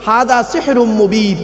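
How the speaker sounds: slow Arabic recitation of হাদা সেহরুম মুবিন; Quranic recitation. Shown as a demonstration. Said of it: "এই কোরআনে আছে".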